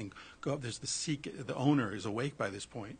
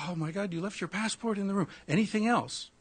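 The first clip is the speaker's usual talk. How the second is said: put-on Indian accent; 9 semitones higher than usual. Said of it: "my Indian accent sucks".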